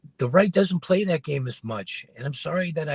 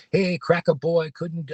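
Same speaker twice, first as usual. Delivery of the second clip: slower, louder mocking taunt; imitating a racist heckler; 3 semitones higher, 4 dB louder, slower than usual. Mimicking the racist man taunting him as cracker boy, slow and louder. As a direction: sneer it out like the man taunting you. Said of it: "I'm imitating him".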